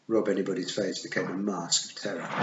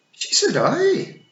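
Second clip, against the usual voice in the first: high, loud, slow shout; 8 dB louder, much slower than usual. A narrator's reading. Rob Anybody shouting down Fionn, loud and slow. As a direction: bellow it over everyone. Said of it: "Rob Anybody shouted".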